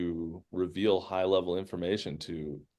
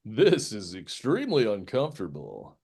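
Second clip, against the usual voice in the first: lightly voiced uncomfortable grumbler; complaining character. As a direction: complain in character with swooping pitch.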